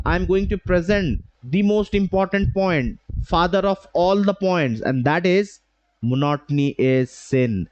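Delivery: slow, deliberate build to "monotony is sin"; power pauses. Shown as a demonstration. Trainer presenting the most important point, pausing for suspense. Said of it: "So this is called power pauses".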